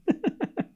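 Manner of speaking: high, quiet staccato fake sobs; short pretend crying hiccups; mock sobbing. Streamer hamming up hurt over accent critics, mock sobs.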